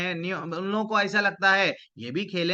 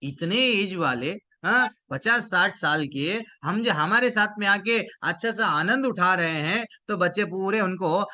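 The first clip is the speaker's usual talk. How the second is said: amazed, pitch climbing toward the end; astonished children; 4 semitones higher, 3 dB louder than usual. Acted. Children amazed that an old man enjoys their game, astonished. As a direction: marvel aloud, building louder and higher. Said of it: "सब बच्चे चकित हो गए हैं".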